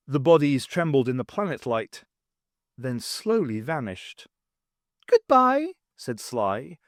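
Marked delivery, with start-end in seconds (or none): 5.1-5.7 high, bright goblin call; goblin farewell. Acted. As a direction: sing out goodbye like an imp.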